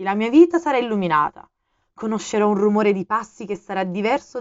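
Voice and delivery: the fox asking earnestly to be tamed; fox, lightly voiced. A narrator's reading.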